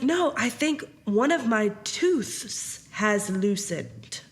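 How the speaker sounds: slow, lightly voiced little boy; a hint of a small boy, drawn out; mild imitation of a child announcing a loose tooth; imitating son. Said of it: "This is how he said that".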